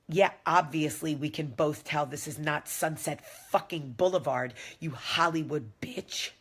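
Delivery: angry driver. Retold or imitated. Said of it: "And he loses his mind".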